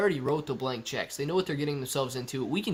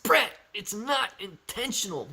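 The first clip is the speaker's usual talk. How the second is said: high, slow impish gremlin voice; mock gremlin excuse; 6 semitones higher than usual. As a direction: play the coy little gremlin. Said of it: "Sweet gremlin voice".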